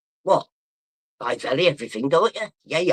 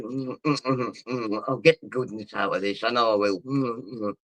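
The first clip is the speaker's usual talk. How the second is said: sucking noises; 5 semitones lower, 4 dB quieter than usual. Retold or imitated. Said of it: "I'm still sat at the restaurant going".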